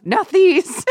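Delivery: high, loud mock command; mock triumphant shout. Heroine trapping Julian in the closet, mock shout. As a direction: shout it like slamming a door on someone. Acting heroine slamming the door.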